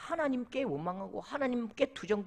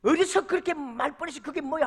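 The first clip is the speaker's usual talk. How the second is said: raised, indignant telling-off; retold scolding; 4 semitones higher, 4 dB louder than usual. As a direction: scold someone for their cheek. Retold scolding for bad manners. (버릇없다고 야단치는 흉내)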